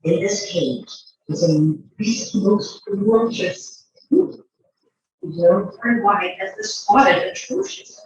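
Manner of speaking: lively sing-song storybook read; playful circus-barker storytelling; reading to a child. A narrator's reading. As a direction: read the rhymes with showman flair. Reads Dr. Seuss aloud to a child.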